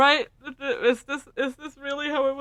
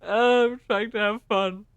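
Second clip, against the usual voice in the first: laughing; 5 dB louder, much slower than usual. Real, not acted. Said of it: "'Cause I'm dying".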